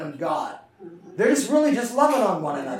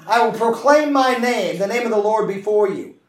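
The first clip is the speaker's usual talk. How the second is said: proclaiming; 2 semitones higher, 5 dB louder than usual. Acted. Repeated proclamation.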